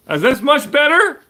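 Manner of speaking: high and loud, laughing by the end; giggly asking. Real, not acted. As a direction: show off the new hat and laugh. Showing new hat to chat.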